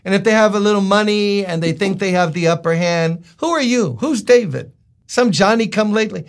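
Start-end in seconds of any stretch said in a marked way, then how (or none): 3.4-6.2 higher, dismissive challenge; mock the newcomer's importance; lightly acted sneering fool; scornful fool. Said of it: "fools talk like that".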